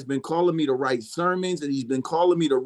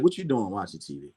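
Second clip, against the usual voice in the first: God scolding; 8 semitones lower, 5 dB quieter than usual. Retold or imitated. God scolds him for watching TV, low and stern. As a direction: lower and softer, a stern voice from above.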